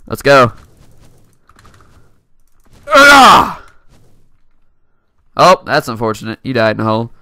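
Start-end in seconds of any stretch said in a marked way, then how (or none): 2.9-3.6 loud, high pained grunt; sharp hurt groan; sudden yelp of pain. Real, not acted. Dying in game.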